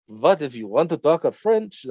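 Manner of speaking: muddled put-on French accent, slowed down; half-hearted mock-French accent; botched French accent. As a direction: try French and land somewhere else. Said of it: "I'm not speaking French. I'm speaking something else now".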